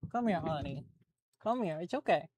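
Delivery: soft, gentle reassurance to the dog; calm the nervous dog; soothing pet voice. Real, not acted.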